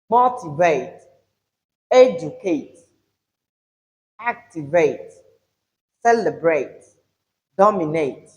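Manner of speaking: MOtivate, EDucate, ACtivate, CELebrate, DOMinate, each opening syllable leaned on; motivate, educate, activate, celebrate, dominate as separate words, each front-stressed; stress on first syllable. Shown as a demonstration. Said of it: "The emphasis is on".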